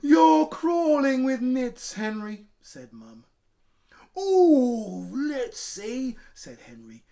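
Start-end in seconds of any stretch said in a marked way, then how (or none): 0.0-2.5 slow, much louder, higher outcry; disgusted at the nits; mum's horrified shout. Acted. Mum horrified. 4.2-6.2 put-on high, loud excited kid; keen to count his nits; Henry's excited kid voice; eager Henry.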